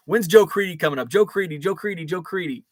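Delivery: lightly put-on South Side Chicago accent, repeating eagerly; attempted Chicago accent. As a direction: imitate a Chicago fan chanting in his local accent. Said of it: "that South Side Chicago accent guy".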